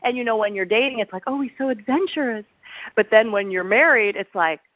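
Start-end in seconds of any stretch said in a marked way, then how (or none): 1.3-2.4 higher-pitched retold swoon; admiring. Woman thinking of the man she is dating, mock admiration. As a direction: play a smitten girlfriend lightly.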